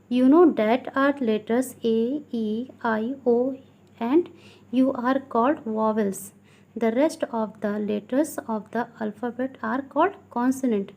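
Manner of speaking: slow, deliberate classroom reading; teacher slowly dictating from a textbook; textbook read-aloud. Acted. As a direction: read it out word by word for pupils. Reads textbook rule aloud.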